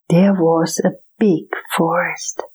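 whispered story narration. A narrator's reading. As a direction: whisper it like a bedtime tale.

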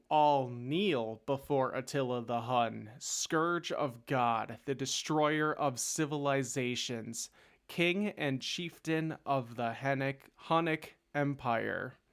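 slow, weighty herald's announcement; grand introduction. Acted. Host introducing Attila the Hun to listeners, grand introduction. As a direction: proclaim the titles with drawn-out pomp.

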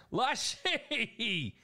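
high sharp call; calling the dog. Real, not acted. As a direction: call the dog's name sharply. Scolding dog during livestream.

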